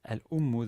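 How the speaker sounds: "Al-ummu" modelled with its middle syllable stressed; stress on second syllable. Shown as a demonstration. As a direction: hit the "um" in "Al-ummu", not the "Al". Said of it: "why is the stress not on al".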